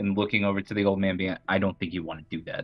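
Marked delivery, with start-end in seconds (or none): 1.5-2.6 quiet, soft-spoken voice. Playing a character grabbing an old man's wrist, warning him: said quietly.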